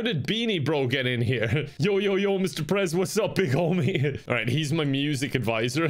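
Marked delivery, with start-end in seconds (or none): 1.8-2.4 cocky music advisor. Acted. Music advisor bursting in on the president, hyped street voice. 2.4-2.9 swaggering homie voice, a touch higher; cocky music advisor. Acted. Beanie Bro hailing the president, swaggering homie voice. 2.9-4.2 cocky music advisor. Acted. Music advisor bursting in on the president, hyped street voice.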